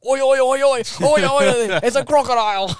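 high, loud, hammed-up alarm call; imitated frantic shouting; retold yelling. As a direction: yell it up high, playing panicked. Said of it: "all I could hear was him just going".

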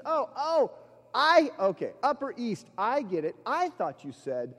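high, relieved, ending in a laugh; the penny drops, laugh it off; relieved realization. Retold or imitated. Roommate realizing the misheard greeting, relieved laughter.

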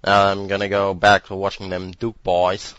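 put-on loud hillbilly voice in a German accent; German-tinged Southern accent. Co-host mocks the anime as a German-accented redneck. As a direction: play a German doing a redneck. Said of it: "Heavy German accent doing a Southern American accent".

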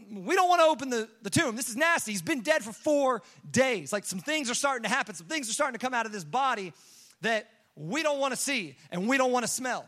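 disgusted protest. Retold or imitated. Onlookers balking at opening Lazarus's tomb, disgusted protest. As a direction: protest in mild acted disgust.

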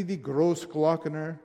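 Großglockner in a German accent, Austrian style. Shown as a demonstration. Preacher showing off his Austrian, German accent. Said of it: "Did I say that with a good accent?".

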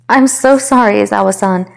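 high, loud squeaked-out apology; squeaky apology. Acted. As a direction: squeak out a sorry. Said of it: "Ochako squeaked out".

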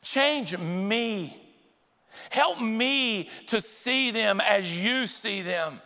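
slow, sincere plea to God; humble prayer. Shown as a demonstration. Pastor shows the congregation how to pray for change, slow and sincere. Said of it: "Let's say".

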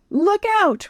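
sudden high shout of warning; called out warning. Acted. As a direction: yell a quick warning. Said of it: "Ryan called".

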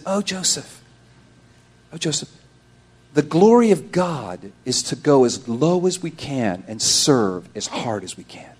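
retold tender admonition; gentle counsel. Recalls gently telling Joe.

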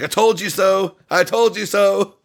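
high, sing-song gloating; gloating Yannick. Retold or imitated. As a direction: rub it in, childlike and smug.

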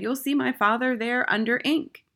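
high schoolboy voice; high-pitched, insistent pupil; Eric. A narrator's reading. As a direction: answer back as a young boy. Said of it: "Eric said".

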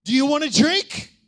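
Jesus proclaiming. Acted. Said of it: "and he's saying this today".

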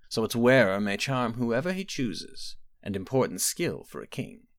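a hint of a knowing old sorceress; mother calmly probing her daughter, lightly voiced; aging mother. Quintilla gives the gem.

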